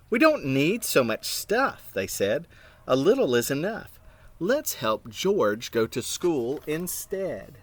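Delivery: put-on lively picture-book reading to children; reading aloud to kids, voicing each character; story narration. A narrator's reading. Reading a storybook aloud to children, animated.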